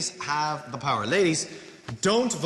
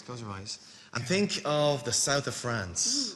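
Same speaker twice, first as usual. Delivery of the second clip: soft, slow, dreamy voice; 5 semitones lower, 4 dB quieter, slower than usual. Pretend. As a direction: paint a romantic picture softly. Host sets up a romantic fantasy.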